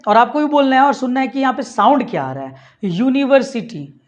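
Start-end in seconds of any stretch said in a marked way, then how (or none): 2.8-4.0 slow, careful word for students; slowed demo. Shown as a demonstration. Teacher slowing down the word for students. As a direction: say it slowly so they hear the sound. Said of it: "इसको थोड़ा सा मैं slow mo में बोलता हूँ".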